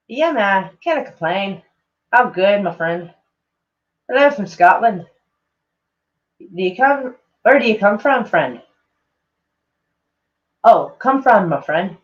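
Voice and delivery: lightly put-on, amateur Scottish accent; horrible Scottish accent. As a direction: read it in a wobbly attempt at Scottish. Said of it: "trying to do a horrible English accent in a Scottish accent".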